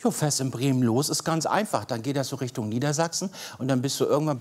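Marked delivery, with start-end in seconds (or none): 0.0-3.3 improvised Bremen accent, easygoing; North German dialect. Shown as a demonstration. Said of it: "eine kleine Rundreise in Form von Dialekten". (norddeutscher Dialekt aus Bremen)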